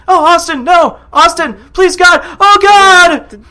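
hammed-up anguished shouting, high and loud; overacted, high-pitched cries of horror; Triple H. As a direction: wail it like bad voiceover acting. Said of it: "Triple H's shitty voiceover acting".

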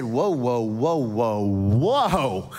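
calming whoa. Retold or imitated. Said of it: "I simply said".

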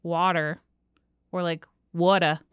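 "water" with a long aw vowel, New York style; North Jersey water. Shown as a demonstration. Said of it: "is more of the North Jersey".

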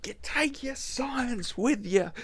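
high, stretched-out mock scream; imitated screaming. Quoting the screaming behind the scene, drawn-out mock scream. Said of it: "the screaming behind it".

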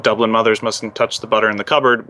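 lightly done Irish accent; key phrase in a mild Irish accent. Shown as a demonstration. Accent trainer giving a key phrase, light Irish accent. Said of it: "trying to get somebody into an Irish accent".

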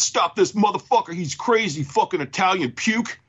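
high-pitched mock outburst; hammed-up movie bartender; bartender impression. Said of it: "Bartender says".

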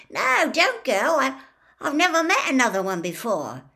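begging her not to leave; eager half giant calling out; urgent plea. A narrator's reading. Hagrid pleading with Madame Maxime.

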